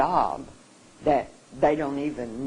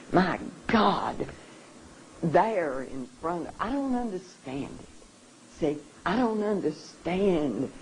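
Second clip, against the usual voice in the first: real emotion catching in the throat, pushing through; overcome with emotion; 6 semitones higher than usual. Real, not acted. Recalling the lynching photos, voice breaking with emotion. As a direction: voice pitched higher, close to breaking. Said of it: "I get very emotional".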